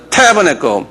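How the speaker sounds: "tabernacle" modelled with first-syllable stress; TA-bernacle, demonstrated for repeating. Shown as a demonstration. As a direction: lean on the TA in "tabernacle". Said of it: "한번 발음해보자".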